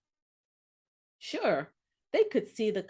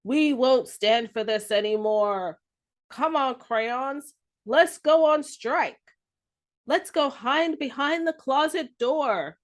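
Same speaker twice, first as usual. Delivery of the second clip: rallying call; 2 semitones higher than usual. Acted. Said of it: "Yellow had had enough and said".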